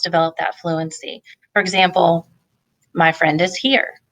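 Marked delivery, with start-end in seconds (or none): 2.9-4.0 "here" falls like a statement; statement tune. Shown as a demonstration. Teacher showing a parent a statement tune. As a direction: say "My friend is here" as a plain statement, ending down. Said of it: "There's a period on the end of that statement".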